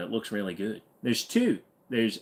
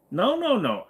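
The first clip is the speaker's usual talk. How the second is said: high protest; 11 semitones higher than usual. Real, not acted. Objecting to chat.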